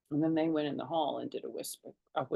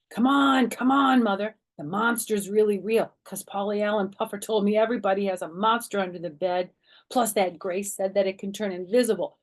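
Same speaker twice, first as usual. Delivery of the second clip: put-on high, loud urgent begging child; excited pleading; 3 semitones higher, 5 dB louder than usual. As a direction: tug at her and beg, all excited.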